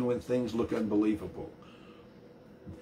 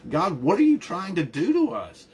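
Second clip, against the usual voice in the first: higher, louder plea, as if the psalmist is begging God; anguished cry to God; 7 semitones higher, 4 dB louder than usual. Retold or imitated. A preacher voicing a psalmist's desperate plea to God, anguished. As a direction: cry it out, hurt and searching.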